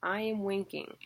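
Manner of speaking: "I am winking" with "am" and "wink" hit harder; unstressed then stressed. Shown as a demonstration. Teacher gives students a mnemonic, stressing "am" and "wink". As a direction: say "I am winking at you" stressing "am" and the first syllable of "winking". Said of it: "Here's a face to go with it".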